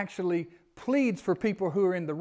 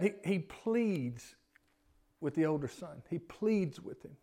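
soft pleading; 2 semitones lower, 7 dB quieter, slower than usual. Shown as a demonstration. Softly repeating pleads.

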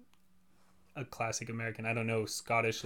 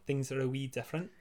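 attempted Scottish lilt, softer; fake Scottish accent; 6 dB quieter than usual. Shown as a demonstration. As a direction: have a go at sounding Scottish. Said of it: "I love faking Scottish stuff".

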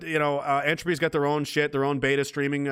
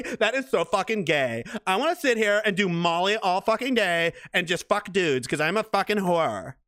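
sneering mockery. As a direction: sneer her view back at her. Mocking her point of view.

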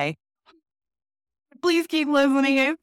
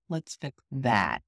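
mock man; 6 semitones lower, 6 dB quieter, slower than usual. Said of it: "What's causing the problem".

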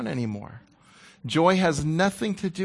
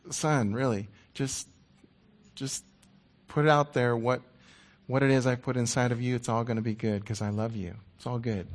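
gentle reassurance; 4 semitones lower than usual. Acted. Voicing God gently reassuring him.

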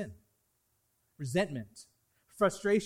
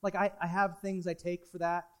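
brushing it off. Retold or imitated. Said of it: "And you're like".

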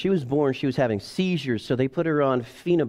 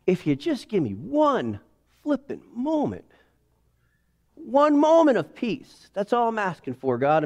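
weary plea; 2 semitones higher than usual. Retold or imitated. Exhausted person begging God for peace. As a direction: plead for one moment, worn out. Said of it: "And you're just like".

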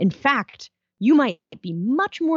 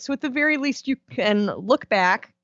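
words broken by coughing; trying to talk through a cough; coughing fit; 3 semitones higher than usual. Real, not acted. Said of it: "Sorry, I'm coughing".

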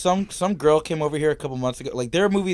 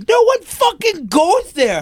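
high-pitched, drawn-out shout; loud, high, indignant outburst; exasperated yell; 4 dB louder, slower than usual. Real, not acted. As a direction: yell it slowly in comic outrage. Heated rant about homeless camps.

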